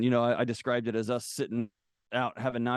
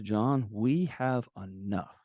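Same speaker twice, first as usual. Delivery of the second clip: slow, weighty delivery of the wife's words; retold firm plea; much slower than usual. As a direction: spell it out slowly, as a wife drawing the line. Wife's solemn confrontation retold.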